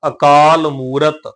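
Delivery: ਅਕਾਲ ਮੂਰਤ slow, as one phrase; joined pronunciation. Shown as a demonstration. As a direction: link ਅਕਾਲ ਮੂਰਤ with long aa and oo. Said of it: "ਉਚਾਰਨ ਹਮੇਸ਼ਾ ਇਕੱਠਾ ਹੋਏਗਾ". (ਅਕਾਲ ਮੂਰਤ ਇਕੱਠਾ, ਹੌਲੀ)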